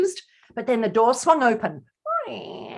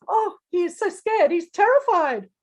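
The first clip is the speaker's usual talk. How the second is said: pitying concern; 7 semitones higher than usual. Acted. Pitying the frightened pictured tiger.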